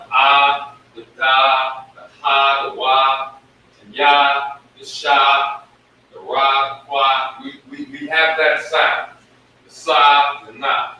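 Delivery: each syllable punched out clearly; teacher listing letter sounds aloud; sounding out letters. Shown as a demonstration. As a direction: drill the ah, da, ha one by one. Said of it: "each one of our characters has a sound".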